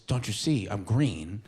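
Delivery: friend calmly insisting he's the Hulk; deadpan tripping friend. Retold or imitated.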